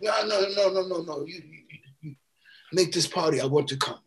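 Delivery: mock insistence, brushing off the refusal; Jocko insisting. Jocko insisting he throw party.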